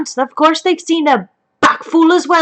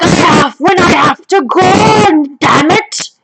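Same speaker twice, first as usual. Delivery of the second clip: put-on defiant child justifying himself; imitating Baxter defending himself, petulant and loud; indignant little boy; 2 semitones higher, 4 dB louder, slower than usual. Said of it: "He's like".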